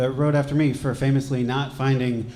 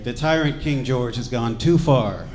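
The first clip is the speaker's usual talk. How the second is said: slow, mildly pompous proclamation; mock-grand declaration; 4 dB louder than usual. Founding father denounces the king, mock-solemn. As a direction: declare it like an earnest revolutionary.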